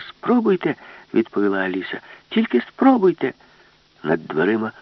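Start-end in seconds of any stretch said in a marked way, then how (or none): 0.1-0.7 high loud dare; defiant dare. A narrator's reading. Alice defiant. 2.3-3.3 high loud dare; defiant dare. A narrator's reading. Alice defiant.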